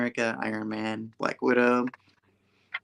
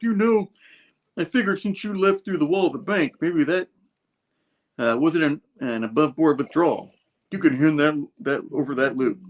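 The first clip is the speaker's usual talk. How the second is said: tough hero; 4 semitones higher, 4 dB louder than usual. Retold or imitated. Thing confronting Rhino in comic.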